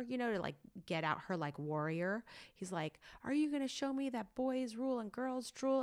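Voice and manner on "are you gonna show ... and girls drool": raised-pitch coach's taunting challenge; imitating challenging coach. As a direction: dare the kid like a tough coach. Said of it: "also kind of berating her".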